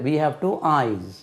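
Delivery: each word spaced out, very slowly; slow classroom dictation. Shown as a demonstration. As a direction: dictate it word by word for little ones. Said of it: "slow model sentence for children".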